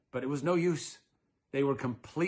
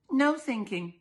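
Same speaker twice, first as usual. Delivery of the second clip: stern mother; 9 semitones higher than usual. Acted. Mrs Dollard voiced.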